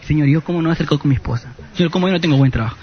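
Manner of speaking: fast, whiny complaint to God; a hint of a self-pitying believer, fast; envious rushed prayer. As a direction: rattle it off, jealous of your brother.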